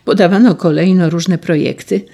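ordinary delivery, nothing marked

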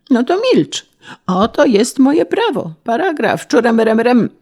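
high, overbearing official's voice; pompous authority, pitched well up; domineering official. A narrator's reading. Official silencing an illiterate peasant with his law book, domineering.

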